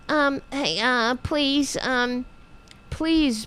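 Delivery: softly pleading like a timid supplicant; a touch of mock pleading; mock begging. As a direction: beg meekly at the door. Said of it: "knocking on the doors, saying".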